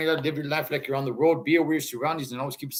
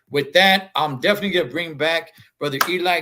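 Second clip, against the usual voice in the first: hyped announcement; 3 semitones higher, 6 dB louder, faster than usual. Real, not acted. Host announcing guest, hyped.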